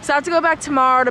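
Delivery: muffled behind a mask; speaking through a cloth mask; through a face mask. Real, not acted. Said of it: "can hear me with the mask on".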